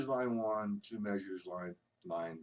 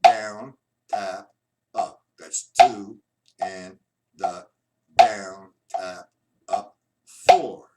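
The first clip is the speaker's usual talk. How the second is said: counting out the accents; 4 semitones lower, 11 dB louder, much slower than usual. Shown as a demonstration. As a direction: call out each stroke, punching the downs. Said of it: "I'm gonna say what I do".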